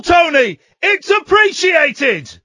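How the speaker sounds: loud, slow sarcastic thanks. Real, not acted. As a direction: shout a fake-cheerful goodbye.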